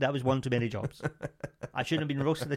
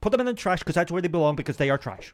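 Andrew Tate impression; 3 semitones higher, 3 dB louder than usual. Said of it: "quite a good impression".

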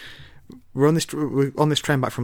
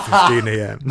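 Rorschach voice; 6 dB louder than usual. Pretend. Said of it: "reminds me a little bit of Rorschach".

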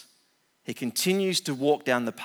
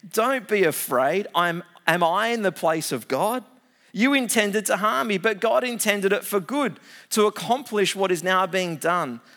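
raised, emphatic comforting; earnest reassurance; 5 semitones higher, 4 dB louder than usual. Acted. Joseph calming his fearful brothers, raised earnest voice. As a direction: lift them up, forcefully reassuring.

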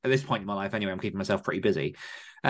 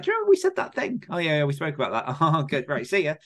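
mock casual chat; 4 semitones higher than usual. Mimicking a lazy chat.

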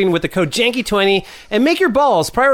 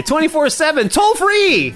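rising high into a hammed-up tagline; mock announcer; 8 semitones higher than usual. Host hamming up the call-in line, rising high. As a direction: push it up like a cheesy ad.

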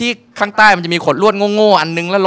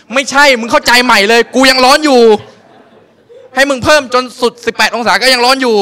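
higher, louder exasperated rant with a laugh; mock outrage; 5 semitones higher, 5 dB louder than usual. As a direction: rant at her misunderstanding. Ranting, laughing.

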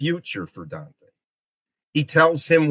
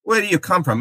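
higher-pitched, mildly suspicious challenge; askance questioning; 7 semitones higher, much faster than usual. Acted. Farinata sizes up Dante at the tomb, askance questioning. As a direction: size up a stranger warily. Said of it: "looks at him a little bit askance".

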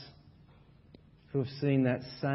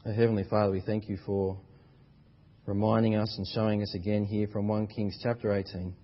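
prayer; faster than usual. Real, not acted. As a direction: speak to God humbly and steadily. Pastor begins closing prayer.

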